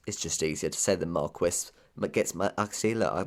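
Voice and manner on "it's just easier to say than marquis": slight lisp on the s sounds; soft lisping s. Real, not acted. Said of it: "my lisp comes back out again".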